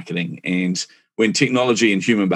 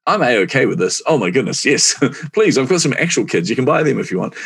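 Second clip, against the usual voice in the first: mock glee; 4 semitones higher than usual. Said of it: "you see your bank balance and you go".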